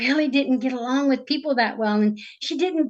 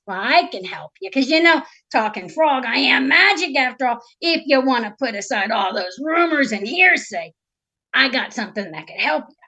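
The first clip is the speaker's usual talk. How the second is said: tag wheedling frog. Acted. Storyteller voices the frog's offer.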